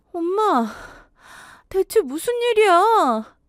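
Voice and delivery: high, drawn-out anxious question; alarmed questioning. Acted. Daughter reaching her waiting mother after fleeing, alarmed. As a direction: demand an answer, worried and high-pitched.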